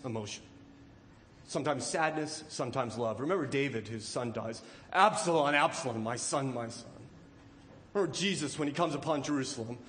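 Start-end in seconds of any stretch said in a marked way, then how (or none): 4.9-6.9 grieving father's lament. Acted.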